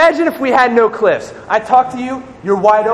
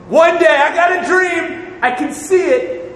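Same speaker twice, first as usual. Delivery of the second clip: dreamy; 7 semitones higher than usual. Retold or imitated. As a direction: proclaim a far-off dream, slowly. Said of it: "God is not up in heaven like".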